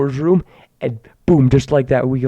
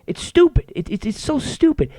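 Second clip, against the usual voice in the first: exasperated squeak; 9 semitones higher than usual. Real, not acted. Ranting about social media.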